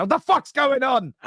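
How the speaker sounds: a dad who can't believe his ears; baffled disbelief. Retold or imitated. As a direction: sound genuinely thrown by it. Dad reacting to son's request.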